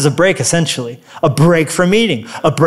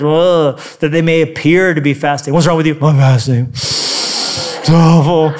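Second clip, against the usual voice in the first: mock moping; 3 semitones lower than usual. Acting out a moping faster.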